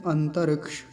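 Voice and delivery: अंतरिक्ष stopping on the क्ष; Hindi way. Shown as a demonstration. Teacher contrasting the Hindi pronunciation. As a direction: say it the everyday Hindi way. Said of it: "Hindi में अंतरिक्ष बोले".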